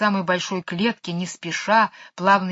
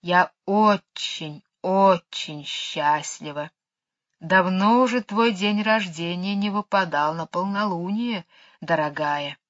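snake voice. Acted. Кобра говорит с Мэри.

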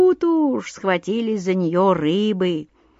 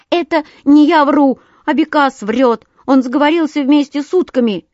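loud, high-pitched denial; indignant little bird, louder and higher; defensive sparrow; 6 semitones higher, 6 dB louder than usual. A narrator's reading. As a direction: protest and shift the blame. Accused sparrow blames the sandpiper.

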